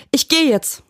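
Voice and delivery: very high, strained cry; acted scream without much added volume. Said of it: "schrie sie".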